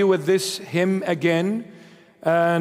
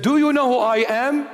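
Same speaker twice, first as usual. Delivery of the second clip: pompous British officer; 6 semitones higher than usual. Retold or imitated. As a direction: puff up like an offended naval officer. British officer confronts lost sailors.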